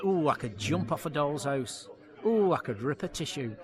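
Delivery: lightly performed comedy catchphrase. Shown as a demonstration. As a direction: play up a signature gag line. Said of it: "you're famous for this catchphrase".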